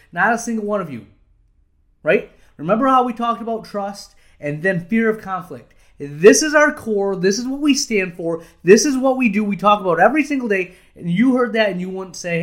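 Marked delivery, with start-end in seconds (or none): 0.1-10.7 forceful retold speech to staff. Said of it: "I go".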